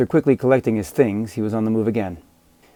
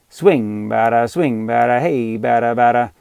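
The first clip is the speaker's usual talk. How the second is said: mild heckling chant, a bit louder; sing-song razzing; 5 dB louder than usual. Acted. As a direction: taunt the batter like a kid in the field. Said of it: "the razzing continued".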